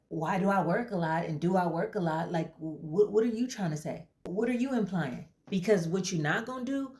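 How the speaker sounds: rising indignant challenge; defensive outburst. Acted. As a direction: push back hard at the therapist. Client gets defensive, confronts therapist.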